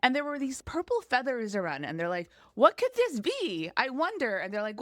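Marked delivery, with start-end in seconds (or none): 2.5-4.4 mock wonder. Acting out the broadcasters' mock wonder.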